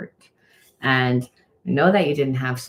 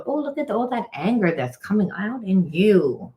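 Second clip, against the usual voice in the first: voicing Spirit; 8 semitones higher than usual. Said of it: "And Spirit says".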